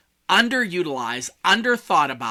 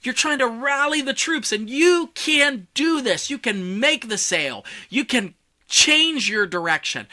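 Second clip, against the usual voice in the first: rally the troops with a big, raised voice; rallying, more volume; 9 semitones higher, 4 dB louder than usual. Shown as a demonstration. Coach rallying the troops, high rousing voice. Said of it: "when you're gonna want more volume".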